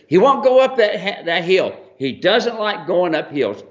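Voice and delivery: high, hammed-up warning lady voice; mock fretting woman. Mule owner warning Steve about the hill, high and fretful.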